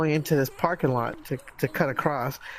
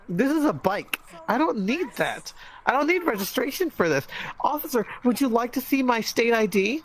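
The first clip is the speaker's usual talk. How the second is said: higher, exasperated mock protest to a cop; indignant retort; 5 semitones higher than usual. Bike rider objects to officer's registration request, indignant. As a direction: act out an incredulous comeback.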